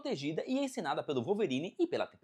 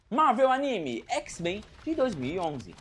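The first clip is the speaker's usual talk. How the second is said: slow, louder and higher announcer read; title announcement; 5 semitones higher, 4 dB louder, slower than usual. Acted. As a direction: announce the next title like a headline. Anúncio de título da seção. (anúncio de título, lento e mais alto)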